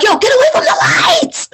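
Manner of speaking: put-on high yelling at the kid; retold shout. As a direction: yell it up the stairs. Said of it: "and I'm like".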